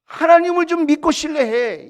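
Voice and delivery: acted fed-up rebuke, rising in pitch; exasperated scolding. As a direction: scold the people like a worn-out leader. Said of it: "언쟁을 높이고 이렇게 싸운".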